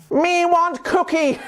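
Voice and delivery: high, slow gruff monster voice with a laugh; giggly monster voice; Cookie Monster. Retold or imitated. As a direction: growl it out like a hungry puppet monster. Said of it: "Cookie Monster".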